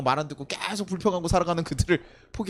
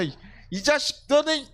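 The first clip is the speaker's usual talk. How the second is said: mock rant; 5 semitones higher than usual. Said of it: "이러면서".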